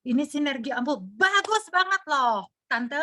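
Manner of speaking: lightly voiced saleswoman pitching to an auntie; eager sales pitch. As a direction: sell it brightly to a distracted customer. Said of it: "Misalnya saya bilang".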